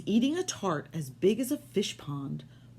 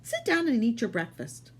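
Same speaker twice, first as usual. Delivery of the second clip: higher, lightly voiced wife; wife's voice; 5 semitones higher than usual. Wife dismissing the giant, lightly higher voice. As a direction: brush him off, a bit higher. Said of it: "said his wife".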